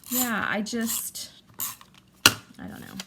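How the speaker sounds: breathy, barely voiced whisper, slowed; words catching as tears rise; choked whisper. Real, not acted. Tearful pause while recounting grief.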